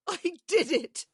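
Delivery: faint call. A narrator's reading. Heard faintly from upstairs.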